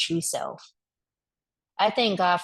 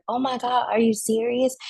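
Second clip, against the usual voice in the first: surprised lady; 5 semitones higher, 4 dB louder than usual. Retold or imitated. Lady surprised by mother comparison.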